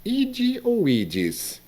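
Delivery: "ide" and "ides" high and very slow; ide versus ides. Retold or imitated. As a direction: set "ide" against "ides", sounding the final s. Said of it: "O padre disse".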